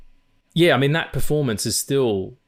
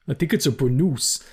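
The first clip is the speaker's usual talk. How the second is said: quoting Otis; 2 semitones higher than usual. Retold or imitated. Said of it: "Ned Beatty as Otis".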